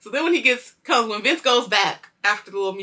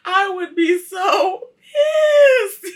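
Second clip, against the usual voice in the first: loud, high, drawn-out outburst; slow, shouted indignation; exasperated; 12 semitones higher, 12 dB louder, much slower than usual. Real, not acted. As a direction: stretch it out in comic outrage. Own outrage at the scene.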